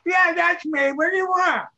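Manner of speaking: put-on high, loud crotchety old man; old man barking down the phone at the producer; cranky old man. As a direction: grumble like a grouchy grandpa.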